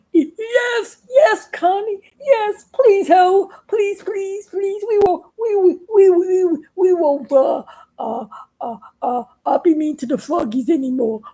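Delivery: high, tearful shouted yeses; frantic pleading. Acted. Toads shouting promises to the Conno bird. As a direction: cry out yes, stammering, desperate.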